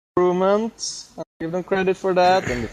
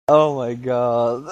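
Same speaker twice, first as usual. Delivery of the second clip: laughing; 3 semitones lower, slower than usual. Real, not acted. Reacting to the joke.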